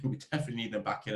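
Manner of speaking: laughing it out quickly. Real, not acted. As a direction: chuckle through the repeat. Repeated line, laughs, faster.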